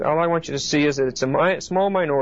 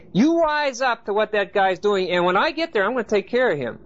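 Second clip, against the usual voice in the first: Paul; 4 semitones higher than usual. Retold or imitated. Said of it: "he's saying".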